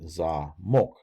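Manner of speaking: "zamok" said za-MOK; full oh on the last syllable of "zamok"; stress on O. Shown as a demonstration. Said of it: "you have the accent on the O".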